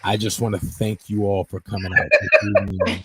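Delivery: lightly voiced politician at podium; formal speech to the crowd; presidential address. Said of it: "And with the presidential voice".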